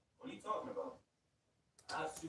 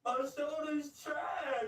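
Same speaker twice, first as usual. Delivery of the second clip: higher, slow, forced shout; louder; 7 semitones higher, much slower than usual. Acted. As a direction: shout it out slowly, as ordered. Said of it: "Man, say it louder".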